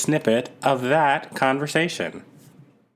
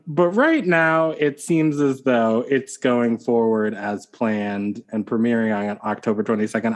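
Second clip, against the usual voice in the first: lightly promotional, measured then quickening; a touch of ad read; ad-like announcement. Real, not acted. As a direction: sound a bit like a show promo. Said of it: "I don't know why I'm talking like, like this is an ad for the show".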